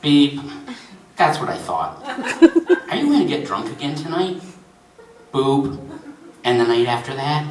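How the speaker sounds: knowing automated interrogation; taunting phone system. Acted. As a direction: needle the caller with recorded-menu questions.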